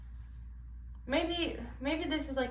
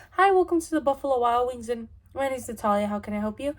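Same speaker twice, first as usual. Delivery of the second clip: a lightly louder cheery cashier welcome; cashier greeting; 4 dB louder than usual. Pretend. Cashier proving she is nice to customers, lightly cheery. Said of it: "I literally gave you guys an example".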